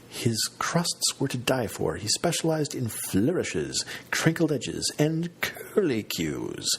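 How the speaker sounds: lightly sing-song, slow and high, stretching the words; sing-song Maria Bamford. Retold or imitated. Narrator imitating Maria Bamford's show, slow sing-song. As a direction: croon the pastry praise like a light mock recital. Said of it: "in her unique sing-song style".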